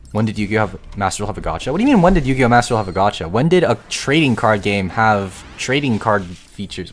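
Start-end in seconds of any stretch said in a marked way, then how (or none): 1.7-6.9 mock the question in disbelief; scoffing at chat's question, sarcastic and loud; sarcastic rant. Real, not acted. Mocking chat's gacha question.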